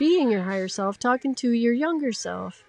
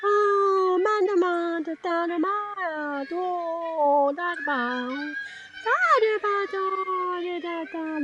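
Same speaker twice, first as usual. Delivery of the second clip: higher, sing-song nonsense like to a puppy; puppy-talk gibberish; 5 semitones higher than usual. Shown as a demonstration. Instructor babbling to herself like to a puppy dog, higher and sing-song. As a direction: babble sweetly as if to your cat. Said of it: "That's how we want you to speak in gibberish to yourself".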